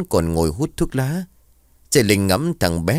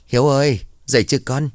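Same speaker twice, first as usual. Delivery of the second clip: raised voice calling through a closed door; mother calls her son awake, voice raised to carry; 6 semitones higher, faster than usual. Acted. Mother calling her son through the door, raised voice.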